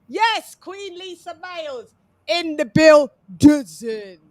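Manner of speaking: hype announcement. Acted. Hyping arrival of guest.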